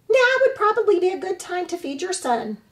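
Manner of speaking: high, loud squawking goose voice; squawking old goose. Acted. Old goose squawks at the robot about the orphaned hatchling, high and loud. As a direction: scold like an indignant old goose.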